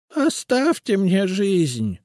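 high, slow, pleading wheeze; wheezing plea. A narrator's reading. Witch pleads with her captors for life. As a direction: beg for your life. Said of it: "прохрипела Генриетта Абелардовна".

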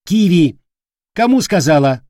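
loud, hard warning; steely command. Acted. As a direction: metal in the voice, brooking no argument. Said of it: "в голосе девушки звякнул такой металл". (стальной голос приказа)

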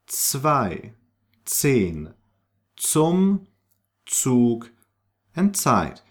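words zwei, zehn, zum started with ts; German Z as ts. Shown as a demonstration. Teacher moves ts to word starts, emphatic German Z. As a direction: punch out Zug and Zeit with initial ts. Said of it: "take this sound to the beginning".

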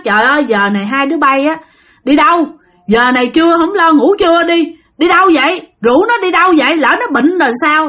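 mildly acted parental scolding, pitch rising; mắng. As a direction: scold a kid with sharp questions, retold. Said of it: "thấy cái bà hàng Sinh mới chửi". (giọng la rầy con, hơi cao lên)

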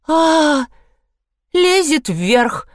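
high gasp, then slow shocked words. A narrator's reading. Suzanne gasps as the elephant climbs the fire ladder. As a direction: gasp it out slowly in alarm. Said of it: "ахнула Сюзанна".

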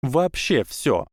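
high, eager schoolgirl; bright proud young witch; girl voice. A narrator's reading. Tracey answers.

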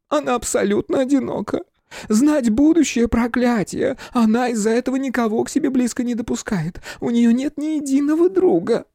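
высокий жалобный голос фамильяра; жалуйся сквозь слёзы, тонко; плаксиво. Acted. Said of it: "зарыдал он". (плаксивый фамильяр, высоким голосом)

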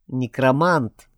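slow words pushed through clenched teeth; through gritted teeth. Acted. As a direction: spit it out slowly, teeth clenched. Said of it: "процедил сквозь зубы Альберт".

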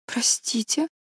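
hushed, hesitant apology; faltering. A narrator's reading. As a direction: falter softly, caught off guard. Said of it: "запинаясь, произнесла Энн".

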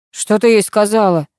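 a touch of nervous worry. Acted. Kir asks nervously about Masha, mildly anxious. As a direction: ask with mild unease. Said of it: "занервничал он".

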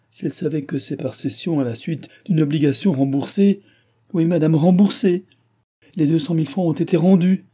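put-on the anxious old countess insisting on her rights; old pleader pleading.

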